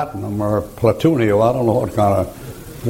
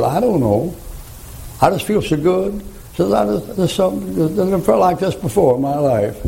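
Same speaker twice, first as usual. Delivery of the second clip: husband's happy wonder; 8 semitones higher than usual. Retold or imitated. Dying husband feels strangely good.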